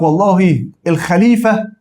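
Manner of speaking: a slow, lightly acted example sentence; teacher acting out a vague example, slowly; unclear sentence. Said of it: "أجي أقول لك".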